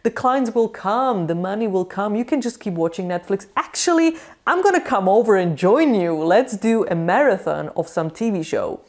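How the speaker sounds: lightly mock a friend who says it's all fine; a hint of a syrupy yes-man; mock enabling friend. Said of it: "I'm not gonna say".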